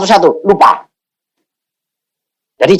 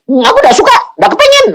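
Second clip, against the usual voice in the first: higher, laughing protest; laughing refusal; faster than usual. Retold or imitated. Preacher laughingly refusing God's offer, higher pitch. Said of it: "Aku bilang".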